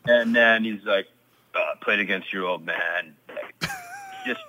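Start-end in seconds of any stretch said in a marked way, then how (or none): 1.6-4.4 lightly voiced old-school coach, halting and understated; a hint of a terse hockey coach; Daryl Sutter impersonation. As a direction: leave long gaps, like a laconic coach. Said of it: "great impersonation of him".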